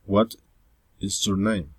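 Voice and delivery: "What is your name?" with the pitch falling on "name"; falling intonation. Shown as a demonstration. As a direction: let "name" drop at the end. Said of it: "Following intonation".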